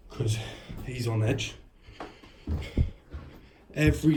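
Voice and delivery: agitated report to viewers after the slam; shaken and agitated. Real, not acted. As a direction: talk fast and loud, still in shock. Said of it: "I'm just a bit in shock".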